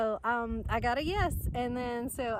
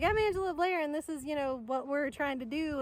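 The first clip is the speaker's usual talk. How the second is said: eager pitch; 5 semitones higher than usual. Retold or imitated. Pitch to business owners.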